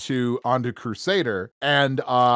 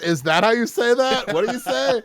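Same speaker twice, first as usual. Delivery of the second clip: puzzled reading aloud; 9 semitones higher, 6 dB louder than usual. Retold or imitated. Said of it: "going like".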